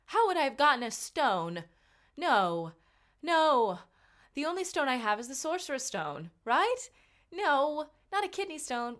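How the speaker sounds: loud, high-pitched protest; indignant disbelief. Retold or imitated. Patient protesting a kidney stone check, indignant disbelief. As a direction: deny it in mock outrage, pitch leaping up.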